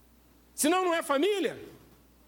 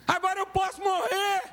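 shouted; 6 semitones higher than usual. Real, not acted. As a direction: call it out to the church. Preacher repeats key line louder.

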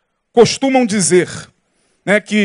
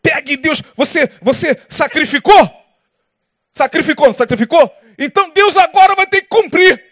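mock preacher's insistent, higher-pitched demands; religious leader's intonation; 5 semitones higher than usual. Religious leader telling those who sacrificed God must deliver, imitated intonation. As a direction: imitate a leader firing challenges at the congregation. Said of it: "Olha eu já fazendo a entonação".

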